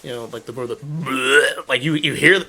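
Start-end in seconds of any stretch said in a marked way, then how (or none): 0.8-1.7 a game monster's audio cue, done by mouth; imitated monster gurgle. Player mimicking an infected's audio cue, gurgled bleh. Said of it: "you can hear 'em in the distance".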